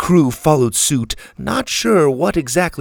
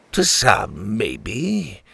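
sneering; much slower than usual. Acted. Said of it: "the captain sneered".

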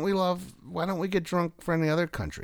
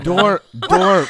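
little voice; 4 semitones higher, 9 dB louder than usual. Pretend. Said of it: "Just the little voice".

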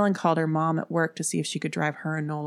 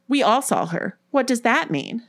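higher-pitched worried protest; 7 semitones higher, 4 dB louder than usual. A narrator's reading. Nola challenging Erin's dismissal, protesting. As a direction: object with raised voice. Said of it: "Nola protested".

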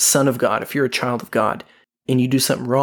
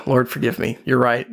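laughing. Retold or imitated. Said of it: "And I'm like".

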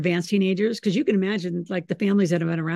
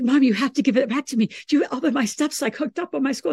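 whiny son imitation; 6 semitones higher than usual. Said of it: "He's like".

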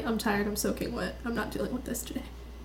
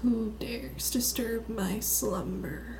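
unearthly voice; 5 dB quieter, slower than usual. Acted. Woken in character by knocking.

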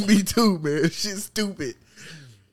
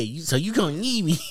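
put-on lisping girl voice. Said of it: "sound like she got a fat ass tongue".

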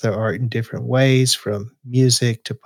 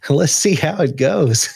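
nervous laugh; 5 semitones higher than usual. Real, not acted. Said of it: "I'm reading it now for the first time".

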